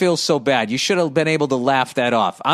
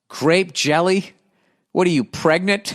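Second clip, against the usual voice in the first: slow, incredulous jeer on "Grape jelly?" rising; mocking baker; 3 semitones higher than usual. Baker teasing the stoned customer, slow mocking jeer. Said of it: "The baker responds".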